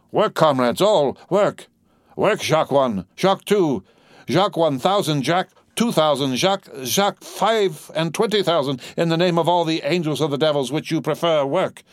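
high, driving battle cry; urgent exhortation. A narrator's reading. Defarge urging his comrades at the cannon, crying out. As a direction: spur the men on, pitched well up.

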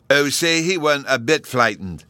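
put-on high, loud little-boy exclamation; excited child Bruno. A narrator's reading. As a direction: point it out eagerly in a child's voice. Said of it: "Bruno said to me".

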